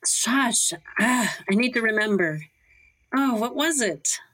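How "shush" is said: sharp whispered shush to silence a friend; a quick hiss of a shush; hushed whisper. Acted. Wife hushing Goldie at Tex's door, whispered.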